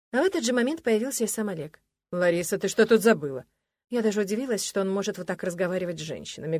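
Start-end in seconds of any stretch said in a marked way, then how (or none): 2.1-3.5 жёстко и громче обычного, без крика; осади незваную гостью; грубо, со злостью. Acted. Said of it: "грубо и со злостью". (грубый злой вопрос)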